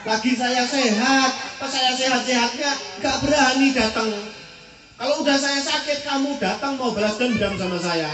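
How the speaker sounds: mildly angry sick man railing at his visitor; cursing. Retold or imitated. Sick spitter scolds Muhammad for visiting late, cursing. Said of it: "Disumpahi sama yang ngeludahi".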